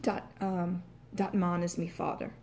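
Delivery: Irish demo, D for TH, broad "man"; Irish accent. Shown as a demonstration. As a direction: speak it Irish, TH turned to D. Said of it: "might end up with something like".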